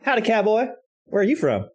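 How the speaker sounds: mock flirty greeting. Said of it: "and go".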